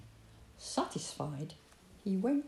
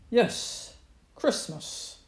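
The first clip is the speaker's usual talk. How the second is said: mildly raised badger voice; calling out; 3 semitones higher, 4 dB louder, much slower than usual. A narrator's reading. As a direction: call back to a puzzled fox. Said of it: "called Badger".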